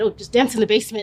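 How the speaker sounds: quick, laughing dad impression; tossing off a dad's dismissal; African dad voice.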